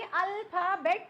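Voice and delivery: अल्फ़ाबेट drawn out as al, pha, bet; divided into three parts. Shown as a demonstration. Teacher showing a single word divided, syllable by syllable. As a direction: say अल्फ़ाबेट slowly in three separate beats. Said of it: "three parts में divide कर दिया है".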